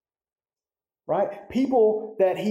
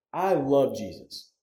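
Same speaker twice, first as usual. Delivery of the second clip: slow, moved declaration of love; emotional; 3 semitones lower, slower than usual. Real, not acted. Pastor telling the congregation he loves Jesus, slow and moved. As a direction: let the feeling catch a little, slowly. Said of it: "when y'all see me get emotional up here".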